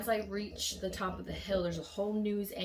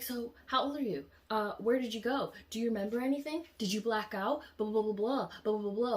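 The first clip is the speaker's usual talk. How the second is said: pestering reporter; 4 semitones higher, 4 dB louder than usual. Retold or imitated. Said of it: "she's like".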